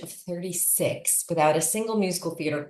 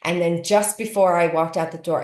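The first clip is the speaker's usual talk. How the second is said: ordinary delivery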